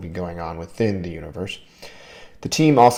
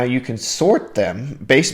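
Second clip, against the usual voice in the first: voice crack; 3 semitones higher, 3 dB louder, slower than usual. Real, not acted. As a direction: voice cracks slightly mid-phrase. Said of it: "my voice just cracked a little bit".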